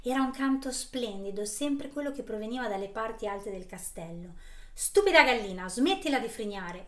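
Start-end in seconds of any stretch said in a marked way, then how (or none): 4.7-6.9 loud, furious witch shout; angry witch yell. Acted. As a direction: bark it at her, enraged. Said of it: "urlò la strega in collera".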